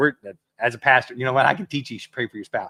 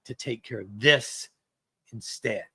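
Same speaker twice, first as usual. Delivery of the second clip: slow self-important brush-off; slower than usual. Pretend. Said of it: "look at the person ... and go".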